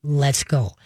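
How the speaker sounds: low, calm release word; calm command. Shown as a demonstration. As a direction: calmly let the dog go, pitch dropped. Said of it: "Then you just calmly say".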